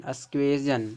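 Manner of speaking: अस्क्वेजन ending in a voiced jan; shown reading अस्क्वेजन. Shown as a demonstration. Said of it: "सजन निकलेगा". (अस्क्वेजन, अंत में 'जन')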